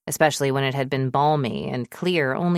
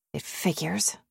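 muttered; 7 dB quieter than usual. A narrator's reading. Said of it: "she muttered to herself".

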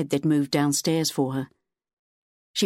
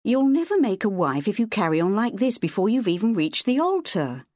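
bitter; 5 semitones higher than usual. Acted. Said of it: "Her mother's bitter words".

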